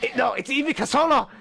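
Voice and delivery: lightly hammed-up Japanese accent; horrible Japanese accent. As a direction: insist on the name in a fake Japanese accent. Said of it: "doing a horrible Japanese accent".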